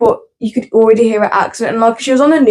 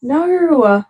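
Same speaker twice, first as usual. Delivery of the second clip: higher Australian "no", vowel stretched and swooping; playful Australian "no"; 4 semitones higher than usual. Pretend. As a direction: swoop through "no" in mock Australian. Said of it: "I like saying no".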